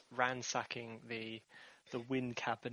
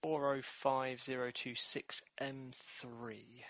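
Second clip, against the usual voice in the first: slow deliberate readout; 5 dB quieter, much slower than usual. Pretend. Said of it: "I thought I'd say it different".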